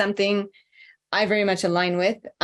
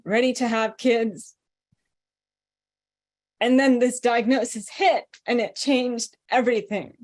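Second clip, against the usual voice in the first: emotional. Real, not acted. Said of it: "I'm getting emotional".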